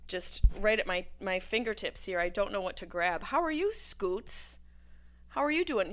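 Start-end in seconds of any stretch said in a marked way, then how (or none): 3.2-5.9 sing-song reply. Pretend. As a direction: coo it back playfully. Answering chat in put-on voice.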